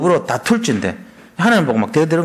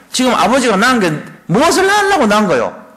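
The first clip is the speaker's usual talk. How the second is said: higher, louder sulky accusation at father; mock accusing son; 6 semitones higher, 3 dB louder than usual. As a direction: demand answers from your father. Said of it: "이제 이런 식이다". (아버지께 높고 크게 따지는 아들 흉내)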